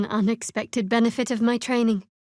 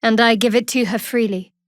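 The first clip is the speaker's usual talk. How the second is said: louder, ringing declaration of faith; fervent vow; 6 dB louder than usual. Acted. Priestess declaring her heart to her goddess, fervent. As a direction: proclaim devotion proudly.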